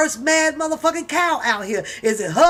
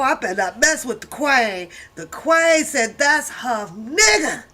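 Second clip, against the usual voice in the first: ordinary talk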